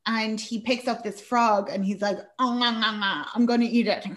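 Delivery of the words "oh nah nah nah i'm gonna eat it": chuckling through a silly boast; laughing joke. Retold or imitated. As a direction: tease her, laughing as you say it. Husband jokes about eating frog.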